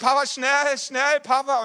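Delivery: put-on a little boy hurrying his dad; imitating child's yell. Son yells again for his father to hurry, imitated high yell. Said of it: "brüllt er nochmal".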